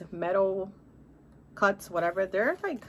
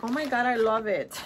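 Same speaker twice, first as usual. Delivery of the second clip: put-on aunt's gushing line in a heavy Latina accent; 2 semitones higher, 5 dB louder than usual. Niece imitating her aunt, heavy Latina accent. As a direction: lightly imitate a Latina auntie's accent, a bit louder. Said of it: "us Latinas, girl, we have that heavy accent".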